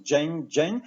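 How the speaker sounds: dzień chimed like jingle, twice; jingle bell sound. Shown as a demonstration. Teacher recalling the bell sound, chiming dzień. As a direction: say dzień with the J of jingle and a ringing end. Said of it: "jingle bell sound".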